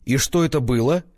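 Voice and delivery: surprised. A narrator's reading. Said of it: "удивлённо спросила Юля".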